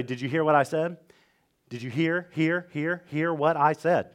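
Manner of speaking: quiet, with the word hear repeated; emphasis by repeating. Shown as a demonstration. Other cultures emphasizing by repetition, quietly. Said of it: "they'll just say".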